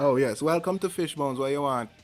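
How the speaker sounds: put-on Jamaican-accented speech. Playing a server at a Jamaican spot greeting a customer: Jamaican restaurant worker. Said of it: "It sounds like a Jamaican spot".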